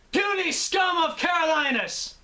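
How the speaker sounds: high, loud shouted villain roar; evil dragon voice. Acted. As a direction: bellow it like a monstrous dragon. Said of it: "came up with something like".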